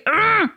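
short infuriated "ugh"; exasperated groan. Acted. Mum venting at hearing her own phrase back, exasperated groan. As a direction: let out a quick growl of exasperation. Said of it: "infuriating for me".

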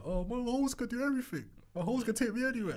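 hammed-up brag about his holes; mock villain boast. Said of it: "funny reference there when he's like".

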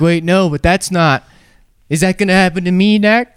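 high, alarmed rush of worry; sudden dread about yourself; panicked realization. Retold or imitated. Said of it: "and you're like".

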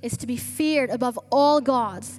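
measured, solemn reading of the psalm; scripture reading. Acted. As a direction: read it to the church with reverence. Reads scripture aloud.

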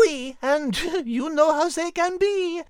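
French-flavoured chuckle through the line; laughing. Acted. Host teasing the announcer, laughing.

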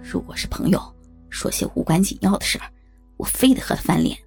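low, annoyed grumble under the breath; grumbling mutter. A narrator's reading. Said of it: "十分不爽地嘟囔着".

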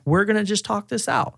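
high-pitched, friendly humoring voice; playful coaxing. Acted. Calming an angry buddy out of a fight, playfully coaxing. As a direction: talk him down lightly, pitched well up. Same coaxing act continues.

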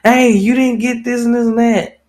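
hammed-up griping about what he didn't get; complaining partner. Podcaster imitating one partner griping at the other. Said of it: "he'll be like".

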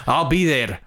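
mock Scottish accent on the phone line; bad Scottish accent. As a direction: put on a clumsy Scottish accent. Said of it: "I'm doing a terrible Scottish accent".

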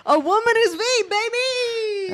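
high, loud hype shout; excited cheering. Real, not acted. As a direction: celebrate at the top of your voice. Hyped celebration cheer.

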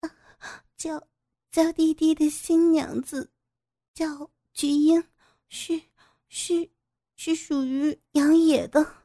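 high, halting ashamed answer; ashamed stammer. Acted. Humiliated woman answers her captor with a shamed stammer. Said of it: "羞红着脸说".

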